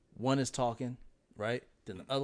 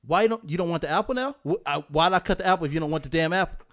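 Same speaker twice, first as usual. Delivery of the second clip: put-on louder, exasperated commands at the kids; frazzled parent yelling; 3 semitones higher, 8 dB louder than usual. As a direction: bark orders at kids running wild. Imitating parenting chaos with kids.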